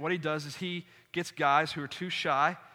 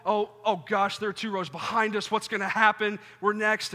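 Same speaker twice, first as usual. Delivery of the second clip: louder, higher, panicked inner voice; 3 semitones higher, 4 dB louder than usual. Retold or imitated. Dreading the kiss cam at the game, panicking. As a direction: rush it like a nervous wreck. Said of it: "I shut down and I was in shock".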